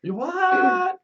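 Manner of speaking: very high, drawn-out disbelief; incredulous. Real, not acted. Player hears a friend bought beer, incredulous high squawk. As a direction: squawk it in shock.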